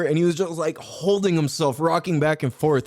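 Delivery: usual speaking voice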